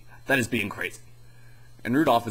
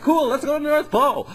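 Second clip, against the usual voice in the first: very high, louder cartoon snowman voice; goofy Frosty; 6 dB louder than usual. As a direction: chirp it out like a dopey snowman. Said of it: "So then Frosty's like".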